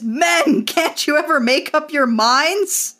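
hammed-up cry of fed-up frustration; mock scream. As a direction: throw it out as a mild mock scream. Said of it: "screams an amazing line".

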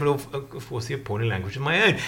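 low, soft, quick concession; deadpan Cummings. Retold or imitated. Adviser answering about his own appalling language, low and unbothered. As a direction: concede it quietly with no fuss. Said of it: "And Cummings has said".

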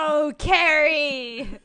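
high laughing groan, slow; laugh-cry at the name. Real, not acted. Reacts to ex's new girl.

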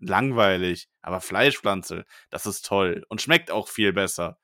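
stiff hostage-style statement, lightly played; mock forced statement. Host reading a forced correction to listeners, mock stiff. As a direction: recite it like a coerced apology. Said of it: "ich bin nicht gezwungen".

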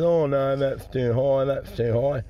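put-on cleft-lip speech impediment; cleft palate voice. Customer refusing the nut seller's price, cleft palate voice. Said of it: "This bloke got a cleft palate and a hair lip".

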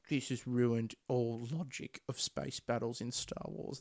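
slow whiny nerd impression; mock a fussy fan. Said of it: "enjoying you doing the nerd voice".

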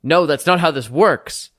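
upset protest, building to a loud no; getting upset. Acted. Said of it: "He's getting upset now".

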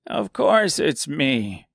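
slow, smiling reassurance; with a smile. Acted. Seamstress smiling reassures the scarecrow, slow. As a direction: smile through the words. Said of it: "said the seamstress with a smile".

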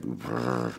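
low, soft fed-up brr; a sullen little shiver sound; grumpy brr. Retold or imitated. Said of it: "I was just like".

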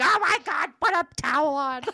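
high loud panicked dad; flustered dad. Retold or imitated. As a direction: squeal it like a shocked father. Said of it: "he'd be like".

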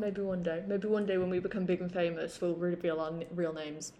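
muffled through a hand; hand over mouth. Real, not acted. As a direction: speak with a palm over your lips. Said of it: "speaking with my hand over my mouth".

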